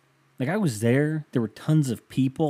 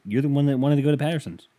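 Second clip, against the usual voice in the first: higher, pointed mock accusation; imitated accusing tone; 4 semitones higher, 3 dB louder, faster than usual. Imitating his girlfriend's blame over the outing, accusing. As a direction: mimic someone scoring a point against you. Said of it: "why do you say it like that".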